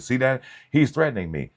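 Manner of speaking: high, loud put-upon whine; hammed-up victim voice; mock whining deacon. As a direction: play the old man crying foul. Mocks old deacon's complaint.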